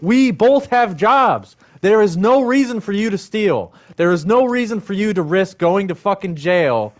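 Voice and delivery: retold firm scolding. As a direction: firmly forbid her to steal. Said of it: "And I said".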